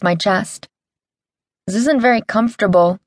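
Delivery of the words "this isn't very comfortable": lightly whiny complaint; whining. Acted. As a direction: whine it a little, a touch higher. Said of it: "I whined".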